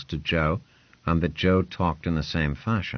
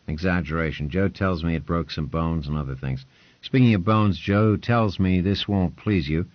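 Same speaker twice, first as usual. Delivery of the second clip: lordly patron. Acted. Lord Ponce quizzing Hugh, a lightly voiced, brisk lord. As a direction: talk down like a lord testing a servant.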